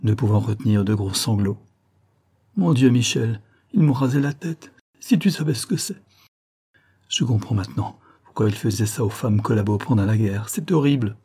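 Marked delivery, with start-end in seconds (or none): 2.5-11.2 crying. Acted. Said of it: "Djedjiga fondit en larmes".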